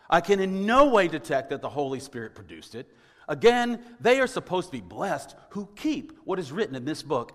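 lightly voiced gruff Luther, dismissive; gruff Martin Luther. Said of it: "I picture him saying this rather gruffly".

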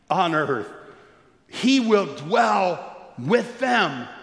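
voice of God. Acted. Pastor reading God's announcement to the church, slow and solemn. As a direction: proclaim it slowly from the throne. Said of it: "And he's saying".

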